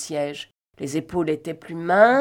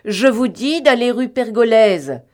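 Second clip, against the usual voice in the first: repeated louder and higher, d'aller rue Pergolèse pushed hard; rising impatience, louder; raised tone; 6 semitones higher, 9 dB louder than usual. A narrator's reading. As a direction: insist as the order is ignored. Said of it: "Il répéta d'un ton plus ailé".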